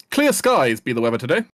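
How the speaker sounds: loud town-crier style forecast; loud, hearty weather call; game guard's call. Pretend. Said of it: "The way you say that".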